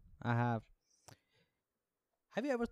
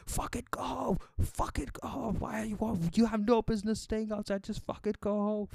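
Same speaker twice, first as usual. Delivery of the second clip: much higher, strained yelling at people; mock drone scolding; 10 semitones higher than usual. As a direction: chase people home by yelling. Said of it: "he just started screaming at people".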